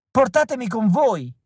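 high, pleading cry to be taken along; grido disperato. A narrator's reading. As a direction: beg them desperately not to leave you. (grido disperato e acuto)

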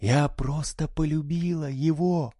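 crying. A narrator's reading. Daughter crying to her mother, tearful. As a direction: say it through tears. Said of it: "заплакала Сьюзи".

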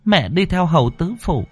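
high, hurried anxious explaining; a mother urging her son to understand; impatient worried mother. Acted. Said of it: "Cô Thao sốt ruột". (giọng mẹ sốt ruột, cao và vội)

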